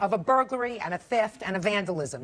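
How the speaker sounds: stern scolding. Real, not acted. Judge scolding a litigant.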